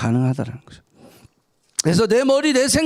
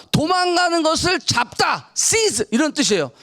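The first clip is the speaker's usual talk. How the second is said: normal talking voice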